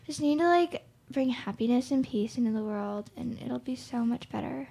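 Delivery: airy breathy mystical healer; dreamy spaced-out hippie; hippie impression. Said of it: "that was my hippie impression".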